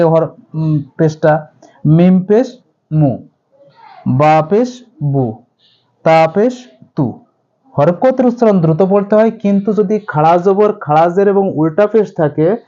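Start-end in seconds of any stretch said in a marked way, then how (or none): 1.9-7.2 quick short vowel. Shown as a demonstration. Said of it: "যদি এমনি হরকত যেভাবে থাকে".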